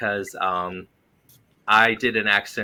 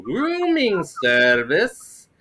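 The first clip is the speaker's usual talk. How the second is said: put-on slow, drawn-out Middle Eastern accent, pitched up; 9 semitones higher, 5 dB louder, much slower than usual. Bellhop greeting hotel guests at the door, Middle Eastern accent. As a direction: stretch each vowel in a thick Middle Eastern accent. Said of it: "do the accent".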